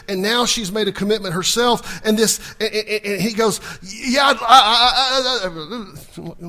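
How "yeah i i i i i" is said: flustered stammer, voice cracking on I; a man caught off guard, stuttering; hammed-up tongue-tied suitor; stammering Boaz. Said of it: "it sounds like a lot of guys".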